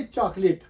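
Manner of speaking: चॉकलेट in two syllables, "chaak-lit"; crisp teaching model of चॉकलेट as "CHAAK-lit"; correct pronunciation. Shown as a demonstration. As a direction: say चॉकलेट with no middle vowel and a short ending. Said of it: "actual word है ये".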